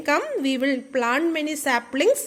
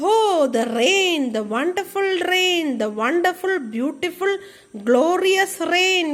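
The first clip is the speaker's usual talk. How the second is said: joyful cry; 3 semitones higher than usual. Acted. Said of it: "cried everybody".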